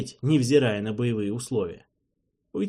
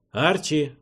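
call down the corridor; 5 semitones higher, 4 dB louder than usual. Acted. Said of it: "крикнул я в проход".

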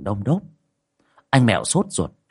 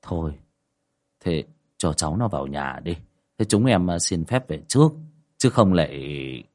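edge away politely, scared; frightened neighbour excusing himself to leave; timid and hesitant; 4 semitones lower than usual. Acted. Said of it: "tiến lại rụt rè".

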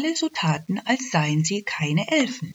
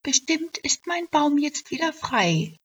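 whispered high elf voice; hopeful thought; 10 semitones higher than usual. Acted. Elf thinking of her hollow tree, hushed whisper. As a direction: breathe it as a private hope. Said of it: "dachte sie".

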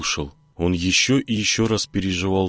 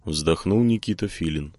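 usual speaking voice

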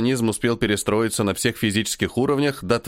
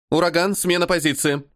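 radio order; 5 semitones higher than usual. Acted. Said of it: "отдаёт по радиосвязи приказ".

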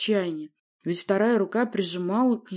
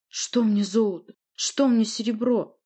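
bitter outcry; 5 semitones higher, 3 dB louder, slower than usual. Acted. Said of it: "с горечью воскликнул Ури".

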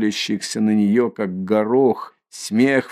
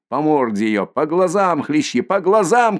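rising to a high, loud savage yell; savage shout; 5 semitones higher, 4 dB louder than usual. Acted. Mikolka ordering the lads to whip the eyes, rising savage yell. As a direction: urge the floggers on, building to a yell. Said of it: "кричит Миколка".

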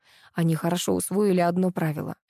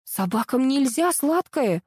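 higher and slow, alarmed; frightened; 6 semitones higher, slower than usual. Acted. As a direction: blurt it out in alarm. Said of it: "испугалась я".

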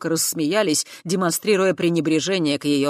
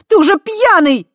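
very high, loud reproach; angry; 13 dB louder than usual. A narrator's reading. Tai angrily accusing Voytek of being drunk. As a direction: scold him for drinking. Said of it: "гневно продолжила Тай".

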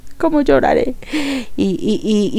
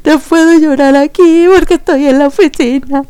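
teary and pitched up, holding back crying; louder, near-crying protest; tearful; 5 semitones higher, 5 dB louder than usual. Retold or imitated. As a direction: fight the tears at work. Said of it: "yo estaba así de".

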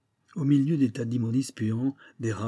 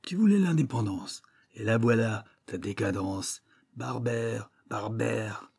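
deep echoing underworld god. Acted. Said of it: "la terrible voix caverneuse et orgueilleuse reprend".

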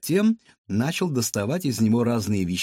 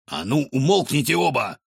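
shouting at them; 2 semitones higher than usual. Acted. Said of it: "прикрикнул Рикошет".

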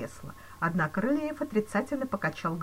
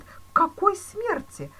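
much higher, louder slow anguished moan; 14 semitones higher, 8 dB louder, slower than usual. A narrator's reading. Banker moaning at the police chief, anguished. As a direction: wail it in anguish. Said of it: "простонал Зюдерланд".

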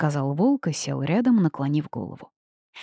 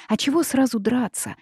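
offended question; 6 semitones higher than usual. A narrator's reading. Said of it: "обиженно спросила я".

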